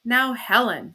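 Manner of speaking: emphatic call to a wife. A narrator's reading. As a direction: lean on NOW as a warning.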